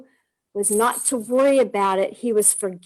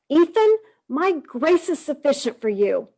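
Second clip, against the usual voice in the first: frustrated insistence; 5 semitones higher than usual. Retold or imitated. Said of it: "I just got so frustrated with him".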